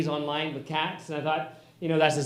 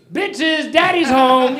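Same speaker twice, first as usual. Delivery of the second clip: higher, louder boastful greeting; proud announcement; 7 semitones higher, 6 dB louder, much slower than usual. Pretend. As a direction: burst in and announce yourself. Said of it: "open the door and say".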